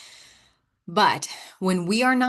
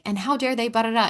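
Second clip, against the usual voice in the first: mock indignation; 3 semitones higher than usual. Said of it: "my mentor calls me out".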